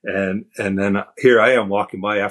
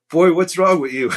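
recruiter's mock yell; 9 semitones higher than usual. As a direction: bark it at the kid in disbelief. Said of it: "He's like".

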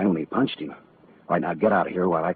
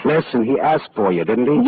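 pressing question, voice climbing high; insistent; 9 semitones higher, 3 dB louder than usual. Acted. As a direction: push her hard for the answer, pitch shooting up. Detective pressing the girl.

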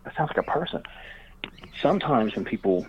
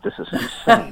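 disbelief; 11 semitones higher, 5 dB louder than usual. Real, not acted. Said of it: "I thought my county was jacked up".

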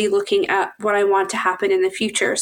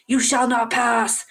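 film quote; slower than usual. Acted. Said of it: "I think Wizard of Oz".

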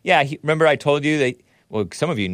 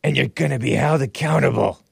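Biden impression. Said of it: "said Bi-, Sleepy Joe Biden".

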